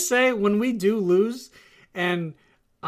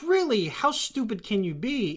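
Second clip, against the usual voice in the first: condescending really; 4 semitones higher than usual. Retold or imitated. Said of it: "It's not like".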